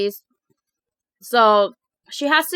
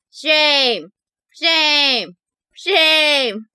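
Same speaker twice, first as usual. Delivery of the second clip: mock shaming; 4 semitones higher, much slower than usual.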